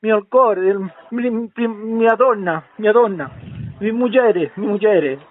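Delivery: groping, makeshift Italian endearments; effortful Italian. Pretend. Man soothing the sweetheart he lied to, effortful mock Italian accent. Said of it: "hago un esfuerzo para hablarte en italiano".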